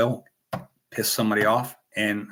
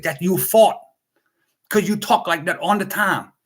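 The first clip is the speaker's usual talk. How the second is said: put-on Asian accent; 6 semitones higher, 5 dB louder than usual. Daughter quoting mom's accent.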